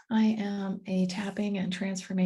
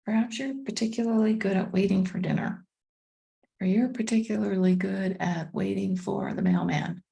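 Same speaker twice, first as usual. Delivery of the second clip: calm meditation guide with long pauses; unhurried, measured guiding voice; guided meditation; 3 dB louder than usual. Acted. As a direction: ease listeners inward, leaving space after each phrase.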